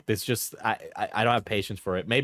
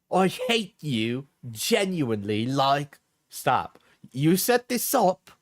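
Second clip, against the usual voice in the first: slow, drawn-out mock Cockney; attempted Cockney; 2 semitones higher, slower than usual. Streamer reading out one side of an argument, mock Cockney. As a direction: read it in a put-on Cockney accent. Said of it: "It's Cockney, I think. I'm trying my best".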